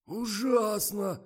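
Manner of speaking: slow, very high, loud exclamation; horrified outcry. A narrator's reading. Misha jumps up appalled, horrified cry. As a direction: cry out in horror, drawing it out. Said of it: "подскочил Миша".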